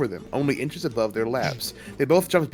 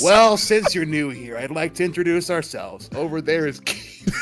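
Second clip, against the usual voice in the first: bully voice; 5 semitones higher, 5 dB louder than usual. Acted. Bully introduces his gang.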